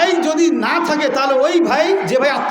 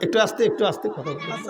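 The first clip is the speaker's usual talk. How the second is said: speaking softly; 8 semitones lower, 8 dB quieter than usual. Real, not acted. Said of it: "আস্তে তুমি".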